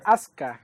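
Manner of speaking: "Asuka" said as AS-ka; silent U. Shown as a demonstration. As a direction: drop the U from "Asuka", two syllables. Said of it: "Los japoneses no pronuncian la U".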